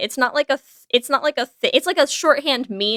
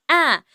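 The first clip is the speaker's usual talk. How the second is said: cat squeak; 5 semitones higher than usual. Retold or imitated. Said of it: "the cat kinda gives this little".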